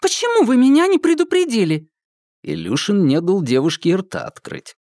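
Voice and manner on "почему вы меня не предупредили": attacking. Acted. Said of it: "набросилась на Полину".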